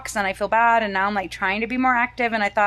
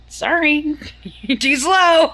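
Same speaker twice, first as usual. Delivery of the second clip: higher, louder mock taunt, laughing as she says it; teasing through laughter; 6 semitones higher, 4 dB louder, slower than usual. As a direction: daughter taunting mom about being too slow, laughing mock taunt. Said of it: "And she just shrugs".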